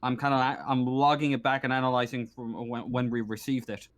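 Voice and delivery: lightly voiced stern marshal, frustrated; a touch of harassed officer briefing visitors; harried station marshal. Marshal explaining the blocked umbilical, mildly frustrated. Game master plays the busy marshal.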